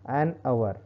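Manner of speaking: "an hour" said as "an aʋə", no h; teacher repeats "an hour" with a silent h. Shown as a demonstration. Teacher modelling "an hour" for students. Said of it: "मैंने pronunciation करके बताया".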